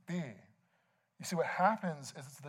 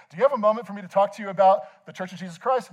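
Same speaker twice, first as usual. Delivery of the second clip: raised, higher canvassing pitch; loud street canvasser; 5 semitones higher, 8 dB louder than usual. Retold or imitated. Street evangelist to passers-by, loud. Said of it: "ask you very loudly about it".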